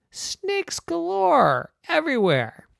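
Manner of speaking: slow, breathy wonder; awed whisper. A narrator's reading. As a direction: whisper it like a secret marvel. Narrator whispering awe.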